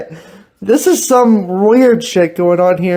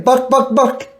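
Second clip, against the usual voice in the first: imitating a chicken; 3 semitones higher than usual. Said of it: "You're a chicken".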